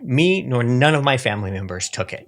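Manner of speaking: imitated commentator, high and insistent; Tucker. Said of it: "That's a pretty good Tucker impression".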